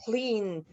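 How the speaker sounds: "cleaned" as one syllable, clind; "cleaned" in a single beat with a light final d; correct pronunciation. Shown as a demonstration. Teacher modelling the correct "cleaned" for students, one syllable. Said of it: "la manera correcta de pronunciar este sería así".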